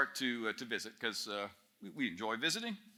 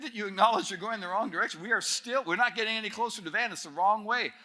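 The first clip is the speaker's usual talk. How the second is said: mock exasperation, pitched higher; exasperated protest; 5 semitones higher than usual. Passengers to the driver still heading wrong, exasperated protest. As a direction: imitate fed-up passengers protesting.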